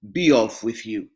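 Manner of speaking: low, deep troll voice; troll reasoning to himself; scheming troll. Acted. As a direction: plot the catch.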